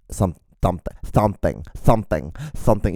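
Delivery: SOMETHING said with a little lisp; slight lisp. Real, not acted. Podcaster catching own Hispanic-heritage lisp, slightly lisped. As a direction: repeat "something", lisping the s slightly. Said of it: "with that little bit of a lisp".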